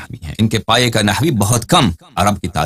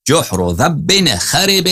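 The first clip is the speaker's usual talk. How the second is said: slow recitation; 4 semitones higher, much slower than usual. Shown as a demonstration. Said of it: "ہونا تو یہ چاہیے تھا".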